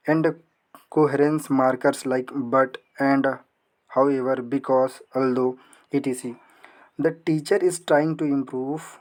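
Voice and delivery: very slow, word-by-word dictation reading; reading the question aloud. Acted. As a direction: read each word slowly for students to follow. Reads exam question aloud. (प्रश्न को बहुत धीरे-धीरे पढ़ना)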